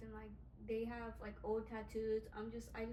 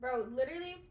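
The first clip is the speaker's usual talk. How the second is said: laughing; 8 dB louder than usual. Real, not acted. Still laughing.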